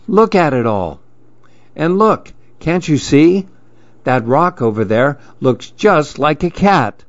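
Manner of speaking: lightly voiced pigeon, starting high; a touch of eager reassurance; mildly enthusiastic, lifting the opening words; encouraging pigeon. Pigeon reassures Mouse, admires forest.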